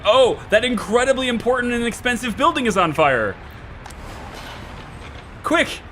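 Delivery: mock alarm. Mock-voices alarm at burning building.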